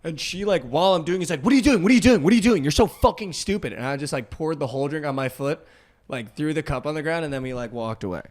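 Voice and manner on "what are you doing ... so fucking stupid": put-on high, loud, repeated outraged girl voice; imitating her frantic shrieking; mock shrieking girl. Girl watching him pour the drink on his foot, mock shriek.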